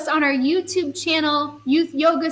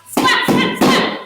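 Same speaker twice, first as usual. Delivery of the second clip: squeaky high excited splats; high playful raindrop splats; 5 dB louder, slower than usual. Acted. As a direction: pop each splat way up high.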